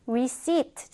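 "receipt" with the P left silent. Shown as a demonstration. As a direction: say "receipt" as ri-SEET, no P sound. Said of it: "P 발음 하지 않았어요".

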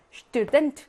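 스튜던트 with the stress on 던트; second-syllable stress. Shown as a demonstration. Teacher showing words ending in -ent, 스튜던트 stressed on 던트. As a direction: lean on the final 던트 of 스튜던트. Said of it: "이 강세인 경우 많습니다".

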